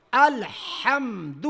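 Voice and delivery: الحمد slow, ح pressed from the throat; الحمد from mid-throat. Shown as a demonstration. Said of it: "وسط حلق سے". (وسط حلق سے الحمد)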